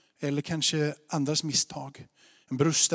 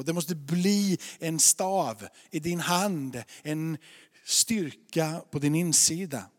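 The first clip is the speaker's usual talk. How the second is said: steady, earnest sermon delivery; measured preacher's teaching voice; preaching. Acted. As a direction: lay out the message to the congregation. Preaching to the congregation.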